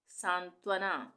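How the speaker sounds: सांत्वना read slowly, syllable by syllable; slow model word. Shown as a demonstration. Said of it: "इसको हम पढ़ेंगे सांत्वना". (सांत्वना धीरे-धीरे)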